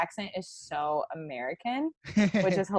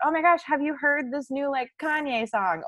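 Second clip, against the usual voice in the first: lightly imitated eager friend, higher pitch; excited friend; 8 semitones higher than usual. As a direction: share mock-excited news in a higher voice. Voicing an excited friend about music.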